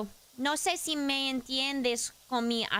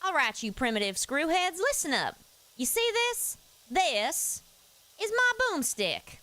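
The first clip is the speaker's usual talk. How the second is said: hammed-up action hero, pitch jumping higher on see and boomstick; boomstick hero quote; 5 semitones higher than usual. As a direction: swagger through it like a cocky hero showing off his gun. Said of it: "I see a request from Dirt Feather".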